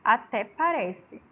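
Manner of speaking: ATÉ PARECE drawn out, falling in disbelief; entonação de descrença. Shown as a demonstration. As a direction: stretch ATÉ PARECE as if not buying it. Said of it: "percebe-se aí a entonação de voz diferente". (ATÉ PARECE arrastado, em tom de descrença)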